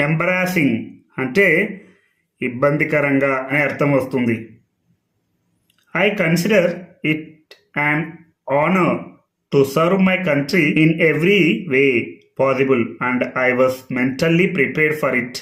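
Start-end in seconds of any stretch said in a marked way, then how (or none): 5.9-15.3 English sentence read out word by word, slowly; slow, deliberate classroom reading; slow dictation reading. Shown as a demonstration. Teacher reads Mary Kom's statement to students, slow and measured.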